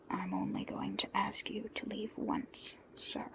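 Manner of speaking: soft, flat-voiced boredom; unimpressed final warning; quiet, idle warning. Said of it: "his tone bored".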